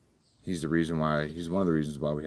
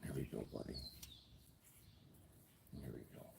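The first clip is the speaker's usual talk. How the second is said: very soft, near-whispered calming; soothing a scared pet; 3 semitones lower, 24 dB quieter, faster than usual. Real, not acted. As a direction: hush him gently. Calming snake on neck.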